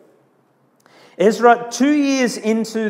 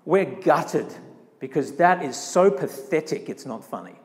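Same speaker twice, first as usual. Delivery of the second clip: low-key dejection, fading softer and lower; understated despondent mumble at the end; gutted; 3 semitones lower, 4 dB quieter than usual. Retold or imitated. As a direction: imitate crushed disappointment, without sobbing. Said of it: "old people who were weeping".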